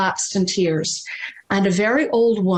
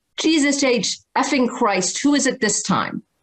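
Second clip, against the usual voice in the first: cantankerous, cranky outburst, pitched up; 5 semitones higher than usual. Retelling how a father answered the phone, imitating a cantankerous father. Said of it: "cantankerous emergency room doctor".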